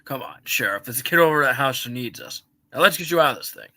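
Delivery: Buzz Lightyear voice. Acted.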